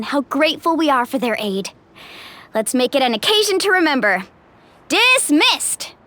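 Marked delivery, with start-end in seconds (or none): 4.9-5.9 commanding call. Acted. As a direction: send them off with authority. Leader dismissing the crowd.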